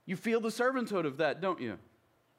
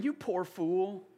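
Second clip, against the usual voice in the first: laughing mock insult; slower than usual. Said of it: "a Southern way of saying".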